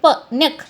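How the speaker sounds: "प, न्यक" as short tossed-out syllables; svarita accent. Shown as a demonstration. Teacher repeating the svarita example for students, thrown "न्यक". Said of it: "ऐसे करके आप उच्चारण करते हैं".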